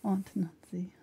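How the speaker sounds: soft echo, AUNT NANCY as "Ahnt Nahncy"; mock Northeastern pronunciation. Making fun of Northeasterner's Aunt Nancy, soft "Ahnt Nahncy". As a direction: quietly mimic the broad "ah" in Aunt Nancy. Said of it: "she would make fun of me".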